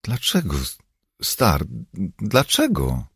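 put-on high-pitched, pleading child's question; ten-year-old boy. A narrator's reading. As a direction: ask why like a troubled little boy. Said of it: "dziesięcioletni Ringo, zapytał".

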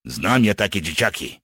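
a touch gruff and grudging; grumbling. Acted. Partisan doubts the captives are harmless, mildly grumbling. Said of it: "burknął jego przyjaciel".

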